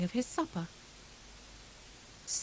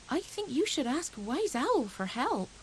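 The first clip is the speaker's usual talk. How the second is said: slow, higher gentle rabbit; lightly voiced little rabbit; 6 semitones higher than usual. Grey Rabbit advising worried Hedgehog, slow and gentle. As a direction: suggest it kindly and slowly.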